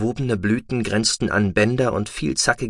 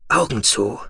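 commanding. Acted. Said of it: "befahl er".

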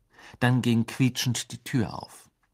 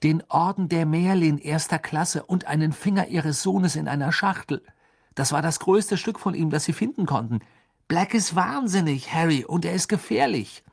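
put-on urgent, higher-pitched boy's voice; worried friend's warning; 7 semitones higher, 3 dB louder than usual. Friend warns Harry that Black is dangerous, urgent. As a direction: warn him insistently in a raised pitch.

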